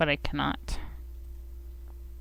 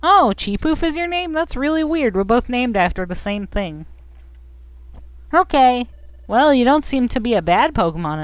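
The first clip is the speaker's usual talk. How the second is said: lightly voiced hero, starting high; friendly game hero; 4 semitones higher than usual. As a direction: play the apologetic little hero.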